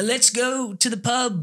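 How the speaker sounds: put-on Irish lilt, taken slowly; Irish accent. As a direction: try a drawn-out Irish pub accent. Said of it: "What's an Irish accent?".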